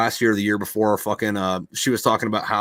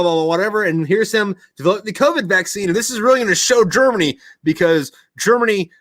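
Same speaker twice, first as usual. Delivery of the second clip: higher, louder gushing teacher impression; mock Austrian teacher; 8 semitones higher, 3 dB louder than usual. Mocking the Austrian teacher to a friend: higher, gushing impression. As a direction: imitate the teacher proudly showing photos, pitched up. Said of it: "And she's like".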